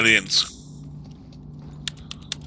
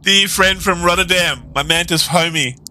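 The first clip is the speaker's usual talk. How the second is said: lightly voiced high alien; a hint of playful alien speaking; 5 semitones higher than usual. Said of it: "The alien said".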